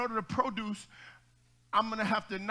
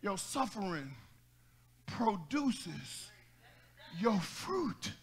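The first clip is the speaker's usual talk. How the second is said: quiet emphasis; 2 semitones lower, 7 dB quieter, much slower than usual. Real, not acted.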